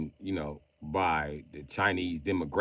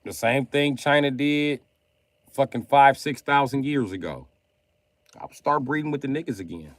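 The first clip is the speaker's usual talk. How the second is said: higher, louder mock Chinese accent throughout; 3 semitones higher, 5 dB louder than usual. Reading his friend Lee's texts aloud in a mock Chinese accent. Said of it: "why am I reading everything Lee said in Chinese accent".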